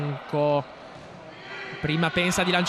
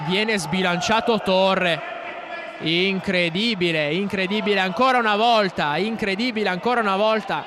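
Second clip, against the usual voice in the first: breathless italian goal commentary; 2 semitones higher than usual. Real, not acted. Breathless call of a foul.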